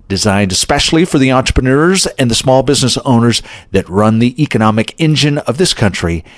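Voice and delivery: self-important pitchman read, lightly hammed; sounding important. Shown as a demonstration. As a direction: puff it up like a big promo line, half in jest. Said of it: "How's that for sounding important?".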